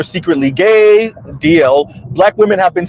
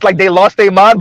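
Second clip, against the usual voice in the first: joking. Shown as a demonstration. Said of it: "we say it in jest".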